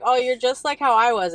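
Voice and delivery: bright, lifted voice; excited high quote. Retold or imitated. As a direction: up high and eager. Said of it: "and I was like".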